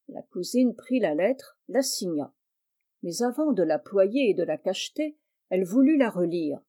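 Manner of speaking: plain reading voice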